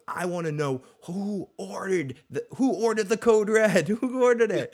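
loud, high demand with a laugh breaking in; shouted movie quote. Acted. Oberon yelling at Tywin, loud courtroom-style demand. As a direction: bellow it like a courtroom showdown.

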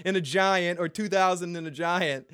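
hammed-up smug villain; imitating Ramsay. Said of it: "Ramsay basically says to him".

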